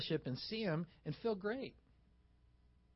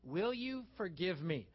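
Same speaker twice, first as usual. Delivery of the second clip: sincere request; slower than usual. Shown as a demonstration. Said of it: "And you say whatever it is, this".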